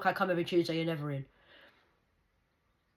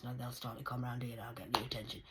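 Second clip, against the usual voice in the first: whisper; 5 semitones lower, 8 dB quieter than usual. Retold or imitated. Retelling threat to worker.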